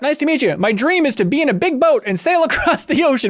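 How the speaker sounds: high, chirpy mock-innocent voice; voicing Pip. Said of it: "you talk to him, he's like".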